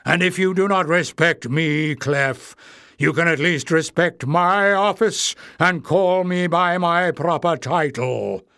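indignant cry. Acted. Warren asserting his office over Clef, indignant. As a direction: demand respect, indignant. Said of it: "cried the goblin called Warren".

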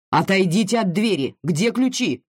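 commanding. Acted. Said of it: "приказал Сикорский".

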